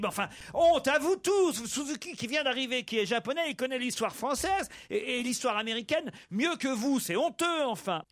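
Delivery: high, indignant scolding of the class; teacher's high, shocked telling-off; outraged teacher. Acted.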